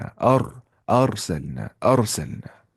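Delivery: "अरसलना" with a thick, rounded "ar"; Tajweed heavy ra in "अरसलना"; heavy full R. Shown as a demonstration. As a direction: recite "अरसलना" as aar-salna, R full. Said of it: "तो मोटी आवाज़ से पढ़ना है".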